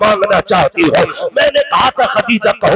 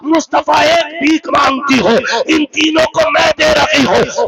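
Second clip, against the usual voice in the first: tearful plea; 4 semitones higher than usual. Acted. Dying Khadija pleads with Prophet.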